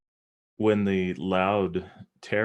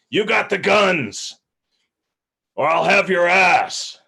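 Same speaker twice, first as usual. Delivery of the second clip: much higher, loud, slow bellowed threat; barked threat; 11 semitones higher, 10 dB louder, slower than usual. Acted. Ephraim turns on the crew and bellows a threat, much higher and loud. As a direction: roar it across the deck, daring them to disobey. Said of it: "he turns around".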